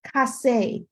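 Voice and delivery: Cassé with a k sound, falling at the end; Cassé said apart for learners; French hard C. Shown as a demonstration. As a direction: model "Cassé" as a French word. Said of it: "When we're looking at C and K".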